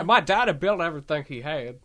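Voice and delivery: stubborn son in a put-on Southern accent; Papa Kent. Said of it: "make fun of with a southern accent".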